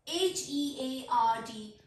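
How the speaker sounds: slow letter-by-letter spelling. Shown as a demonstration. Teacher spelling a word for learners, slow spelling. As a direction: spell it out, a small gap after each letter. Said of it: "letter spell करती हूँ".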